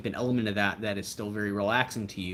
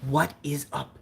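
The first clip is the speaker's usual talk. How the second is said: mock vlogger greeting; upbeat intro hello; Timothy Treadwell; 5 semitones higher than usual. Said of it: "my Timothy Treadwell impression".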